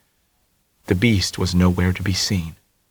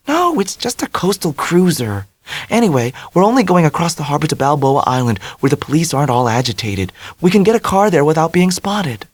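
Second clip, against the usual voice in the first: high, bubbly confidence; ebullient Dell; 7 semitones higher than usual. A narrator's reading. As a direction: brim over with cheer, much higher. Dell voiced.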